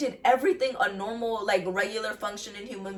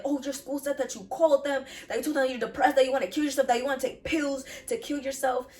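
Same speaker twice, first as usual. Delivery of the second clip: lightly imitated alarmed parents, higher pitched; upset parents; 5 semitones higher than usual. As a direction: relay the parents' worried rush, a touch higher. Quoting upset parents on phone.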